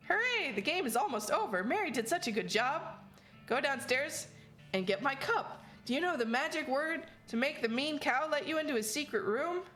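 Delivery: high, sing-song haunted doll voice; cheerful child ghost giving orders; too calm creepy doll. Acted. Doll voice speaks in game.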